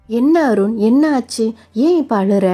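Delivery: worried surprise. Acted. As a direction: rush to a crying friend in alarm. Kavitha finds Arun crying. (பதற்றமான ஆச்சரியம்)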